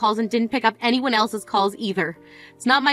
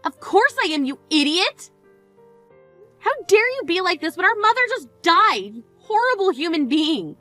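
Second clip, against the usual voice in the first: furious scolding; 4 semitones higher than usual. Acted. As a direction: finally lose your temper at her. Sister loses temper at funeral.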